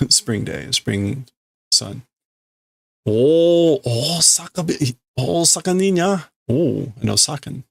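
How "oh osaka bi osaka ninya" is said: surprised exclamation. Acted. Reading the character's exclamation.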